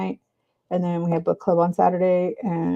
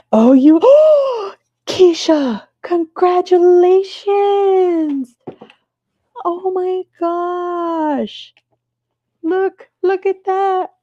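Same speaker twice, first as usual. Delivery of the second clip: high, slow, gasping gushing congratulations; overjoyed, pitched way up and stretched out; excited squeal; 9 semitones higher, 5 dB louder, slower than usual. Real, not acted. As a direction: squeal with joy for a friend who hit her goal. Viewer Keisha hit her goal.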